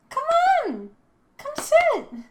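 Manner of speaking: cooing at the cat. Real, not acted. Coaxing the cat onto lap.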